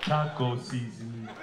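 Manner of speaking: hammed-up hopeless husband; defeated husband. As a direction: sigh it out like a broken man. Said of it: "he just goes".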